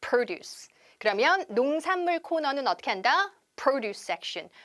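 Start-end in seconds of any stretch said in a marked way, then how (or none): 0.0-0.7 produce stressed on PRO; first-syllable stress. Shown as a demonstration. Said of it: "액센트가 일강세로 바뀌게 됩니다". 3.6-4.5 produce stressed on PRO in produce section; first-syllable stress. Shown as a demonstration. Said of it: "produce section이 아니라 produce section".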